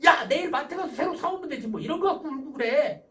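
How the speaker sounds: loud, high, breezy brush-off; dismissive parent. Acted. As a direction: wave away a crying child's upset. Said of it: "이게 별거 아니다 스타일이에요". (별거 아니라는 듯 가볍고 크게)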